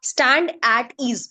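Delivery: very slow, drawn-out stand at ease with weight on stand; slow drill command. Retold or imitated. Teacher to students, mimicking the assembly command, very slow. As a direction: stretch it like an assembly order. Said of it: "क्या बोलते थे हमारे teachers".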